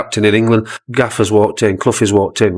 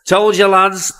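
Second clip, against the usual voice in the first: mock jeer; 9 semitones higher, slower than usual. Clough mocking his captain again.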